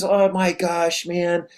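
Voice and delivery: woe-is-me whine. Retold or imitated. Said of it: "Not the woe is me questions".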